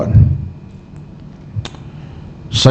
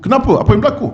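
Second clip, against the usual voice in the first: high, startled asking; surprised question; 10 semitones higher, faster than usual. Retold or imitated. Osman turns to his weeping friend, high surprised question. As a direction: ask it in sudden wonder, pitched well up. Osman asks why he weeps.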